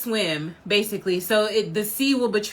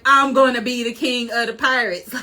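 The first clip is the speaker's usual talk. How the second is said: emphatic boast, each word driven home; sure declaration. Retold or imitated. Fan acting out Luffy sure of himself after the fruit, emphatic. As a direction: proclaim it with total certainty. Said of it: "he's for sure like".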